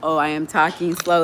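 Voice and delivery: deliberately drawn-out, word by word; slow, over-careful demonstration of slow speech; mock slow talking. Shown as a demonstration. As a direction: exaggerate talking slowly. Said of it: "when I talk slow".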